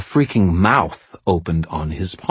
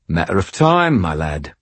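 winking. A narrator's reading. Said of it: "Binder said, winking".

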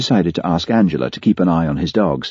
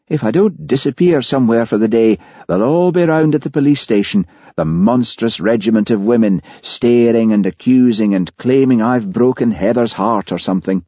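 lightly acted harried man, pitched higher; a higher-voiced, put-upon complaint; harried Highland policeman, exasperated; 5 semitones higher, 3 dB louder than usual. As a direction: grumble in rising exasperation.

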